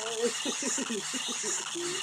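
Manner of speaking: words squeezed out through laughter; laughing. Real, not acted. Laughing at a funny video.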